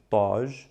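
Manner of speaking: taj with a light plain T; soft T taj. Shown as a demonstration. Teacher contrasting the soft T in taj. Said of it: "versus taj".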